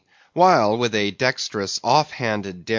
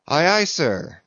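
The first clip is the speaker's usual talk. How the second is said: higher-pitched, cheery acknowledgement; cheerful cry; 6 semitones higher, 3 dB louder than usual. A narrator's reading. Small officer answers his captain's order, cheerfully crying out. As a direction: sing out a willing answer. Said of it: "cheerfully cried little King Post".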